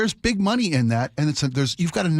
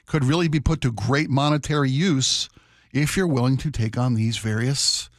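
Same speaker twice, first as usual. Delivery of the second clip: shady recruiter; slower than usual. Retold or imitated. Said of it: "someone approaches you and says".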